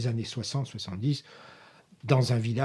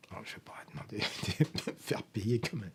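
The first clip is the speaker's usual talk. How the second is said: half-laughed aside; 6 dB quieter than usual. Real, not acted. Joking aside about not charging.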